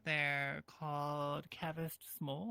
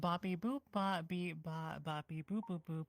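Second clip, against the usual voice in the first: toy robot voice. Pretend. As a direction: babble like a little toy robot. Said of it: "to talk only in beep boops".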